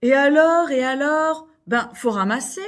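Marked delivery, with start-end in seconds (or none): 0.0-1.5 indignant echo. Acted. Angry neighbor repeats dog owner's retort.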